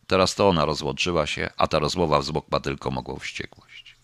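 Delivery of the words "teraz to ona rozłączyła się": usual speaking voice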